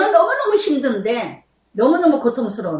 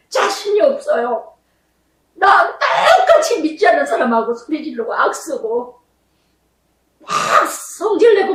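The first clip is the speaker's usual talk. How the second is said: retold tearful prayer; 3 semitones higher than usual. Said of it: "하나님께만 얘기했어요".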